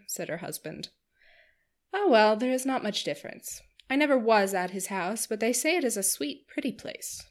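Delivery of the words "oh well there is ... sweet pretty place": chattering Missus Palmer. Acted. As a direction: bubble over like a giddy hostess.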